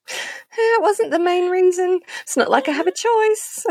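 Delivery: mock shrug. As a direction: play it off with a shrug. Mock reply about bravery.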